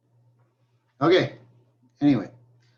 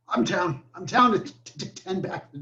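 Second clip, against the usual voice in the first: joking smoker voice; 4 semitones higher than usual. Pretend. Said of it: "Just kidding".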